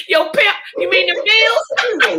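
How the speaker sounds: high, slow laughing disbelief; laughing question. Real, not acted. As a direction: ask it while cracking up. Host laughs at comment.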